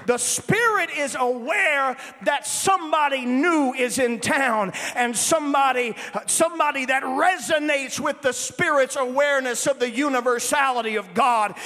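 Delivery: emphatic, driving sermon delivery; forceful preaching. Real, not acted. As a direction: preach it out to the whole congregation.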